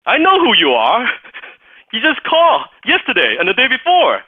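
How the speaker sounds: high, loud exasperated receptionist voice; a secretary fed up with the caller, sharp and high; annoyed assistant. Retold or imitated. Assistant scolding a persistent caller, high and loud.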